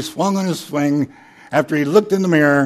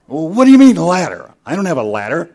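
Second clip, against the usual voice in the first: baffled customer; 3 semitones higher, 6 dB louder than usual. Acted. Customer baffled by manager's advice.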